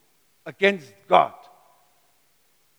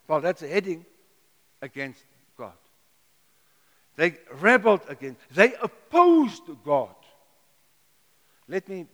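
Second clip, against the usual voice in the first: normal talking voice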